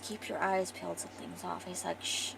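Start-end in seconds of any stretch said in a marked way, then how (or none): 0.0-1.6 quiet, half-whispered caution; hushed warning. Acted. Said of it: "And she whispers". 2.0-2.3 soft, secretive shushing; quiet acted caution; hushed warning. Hushing her, people are staring.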